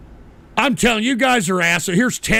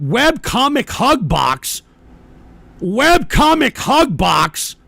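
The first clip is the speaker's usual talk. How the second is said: slow, disbelieving question; baffled and indignant, word by word; incredulous repeat; 3 dB louder, much slower than usual. Real, not acted. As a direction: draw out each word in disbelief. Baffled repeat of donor's phrase.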